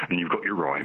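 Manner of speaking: usual speaking voice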